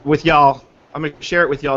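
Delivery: light attempt at a Southern accent. Host asking Sarah if he passes as Southern, playful Southern accent. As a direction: try on a mild Southern US twang. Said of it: "Do I sound like I'm from the South?".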